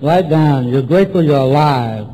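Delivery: measured sponsor's dictation; dictating. Retold or imitated. Sponsor dictating a gratitude list to newcomer, dictating firmly. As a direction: dictate it firmly for someone writing. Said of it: "you write and I'll dictate".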